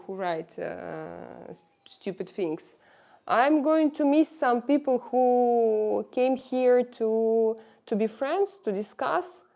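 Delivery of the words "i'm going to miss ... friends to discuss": slow, louder, pressing each word; emphatic. Real, not acted. To the haters, she insists louder and slower. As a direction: lean in hard, make them listen.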